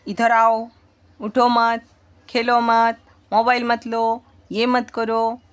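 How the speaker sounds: short, firm demonstration orders; command. Shown as a demonstration. Teacher showing students example orders, mild command. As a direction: give mild orders, one at a time. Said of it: "उसमें order होती है या फिर command".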